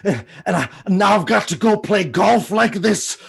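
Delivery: Sean Connery impression. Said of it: "Uh, Sean Connery".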